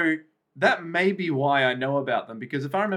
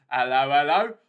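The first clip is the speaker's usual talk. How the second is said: put-on Japanese accent. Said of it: "This is my Japanese accent".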